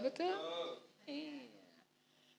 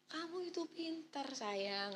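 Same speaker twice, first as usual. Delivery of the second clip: gentle praise; 5 semitones higher, 5 dB quieter than usual. Shown as a demonstration. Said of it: "mau bilang anak bodoh, hati-hati".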